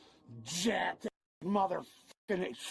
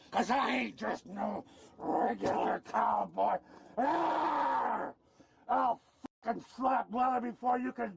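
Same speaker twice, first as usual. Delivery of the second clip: wild threatening yell; furious ranting. Real, not acted. Arrestee raging threats.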